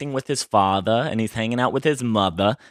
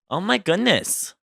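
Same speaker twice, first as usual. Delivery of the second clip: amazed; 7 semitones higher than usual. Real, not acted. Reacting to the news clip.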